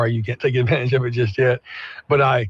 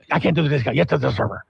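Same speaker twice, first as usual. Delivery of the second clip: mildly mimicked brusque refusal; imitated curt brush-off; barking checkout guy; much faster than usual. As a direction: rattle it off as a lightly barking cashier. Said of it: "he almost barks at you".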